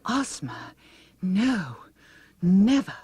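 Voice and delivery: high frightened denial; terrified protest. Acted. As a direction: plead your innocence. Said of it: "protested Mombi".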